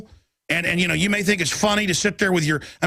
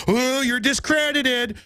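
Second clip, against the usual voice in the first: mocking dismissal, slowed; 5 semitones higher, slower than usual.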